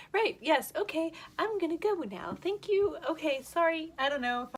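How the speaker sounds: high, loud flustered babbling. Retold or imitated. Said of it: "And I was like".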